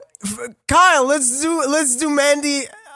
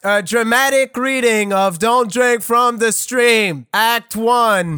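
dramatic announcer; slower than usual. Acted. Announcing the group's dramatic reading.

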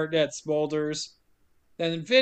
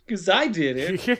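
smug prisoner. Retold or imitated. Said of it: "Foster's smiling in the cell like".

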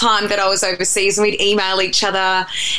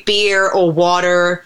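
BEER and WATER with Canadian Rs; slow Canadian "beer or water"; Canadian accent; slower than usual. Shown as a demonstration. Ordering at a Canadian pub, Canadian accent. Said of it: "have to say".

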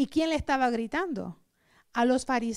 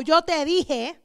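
told you so; 3 semitones higher, 7 dB louder, slower than usual. Retold or imitated. Mock scolding quote, loud.

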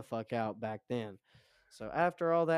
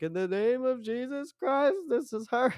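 high, loud commanding rebuke; commanding exorcism; 12 semitones higher, 7 dB louder than usual. Retold or imitated. To the possessed friend, a loud commanding rebuke. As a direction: cast it out in Jesus' name. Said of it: "and I was like".

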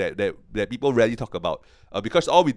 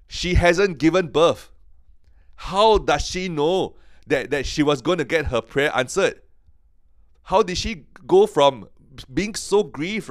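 awed emphasis; 5 semitones higher, 3 dB louder than usual. Real, not acted. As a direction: build it up as a marvel to the listeners. Preacher marvelling at Hannah's faith.

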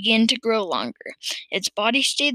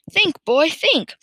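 high, punched command; urgent cry; 6 semitones higher, 5 dB louder, slower than usual. A narrator's reading. Farmer pushing George to remember, crying urgently. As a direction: press him hard to remember. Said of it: "cried Mister Cranky".

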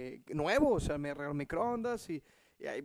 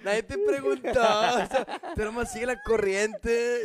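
much higher, louder panicked thoughts; frantic inner voice; 5 semitones higher, 7 dB louder, slower than usual. Retold or imitated. Husband's inner voice begging wife not to mention the microwave, frantic. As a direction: silently beg her to shut up. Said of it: "Y yo por dentro".

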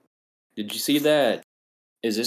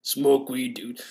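higher-pitched mock stoner catchphrase; Seth Rogen; 4 semitones higher, slower than usual. Co-host mimicking the talking tray, Seth Rogen impression. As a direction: imitate a chuckling stoner celebrity. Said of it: "it's just Seth Rogen".

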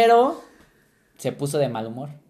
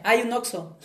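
imitating mom; 7 semitones higher than usual. Mom voice giving reference.

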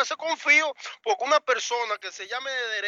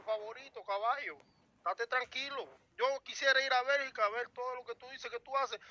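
much softer, condescending calm over a threat; mock calm; 7 dB quieter than usual. Real, not acted. Man quietly taunting a rival on a call, mock calm. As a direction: soothe him with contempt, quietly menacing.

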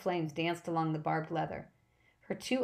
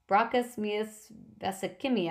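mock yell; 4 semitones higher than usual. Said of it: "I yelled".

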